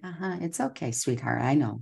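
soft, gentle reassurance to yourself; calm a nervous child inside you; soothing self-talk. Retold or imitated. Soothing her own anxiety.

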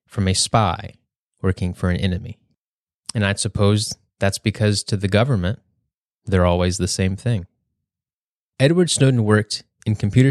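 prepared speech read aloud; measured public-speaking delivery with emphasized key words; formal speech. Real, not acted. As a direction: deliver it like a scripted college speech. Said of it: "sounds like I'm giving a speech".

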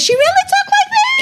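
very high squeaky mock baby talk; weird voice. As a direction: imitate a childish squeak, half laughing. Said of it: "with the weird voice".

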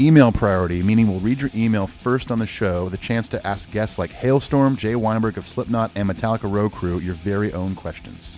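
punchy, upbeat ad read; energetic scripted announcement; promo read. Real, not acted. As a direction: greet listeners like a podcast sponsor spot. Reads Patreon promo.

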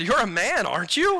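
acted teasing question. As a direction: needle him a little. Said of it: "a little bit of teasing".

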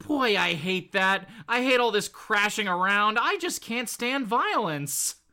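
lightly voiced slow, whiny wimp; a hint of a fretful weakling, slowly; timid Molecule Man. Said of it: "the Molecule Man who goes".

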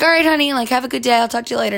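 a hint of a breezy mom signing off; mom's voice. Mom saying goodbye on the morning call, lightly voiced.

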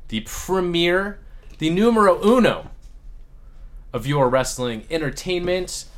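announcer voice. Acted. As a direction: announce it like a host. Show intro, first try.

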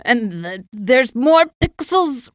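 rising high and loud, slowing down; excited insistence. Retold or imitated. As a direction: build to an emphatic peak. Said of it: "And you're like".

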